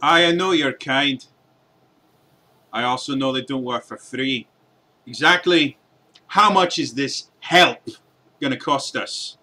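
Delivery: suspicious dwarven smith, slowed; dwarf haggling. Acted. Dwarf smith questioning the party about cost, suspicious. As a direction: press them on price in a dwarf voice.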